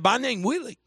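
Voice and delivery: lightly voiced excitable kid; eager teenage boy.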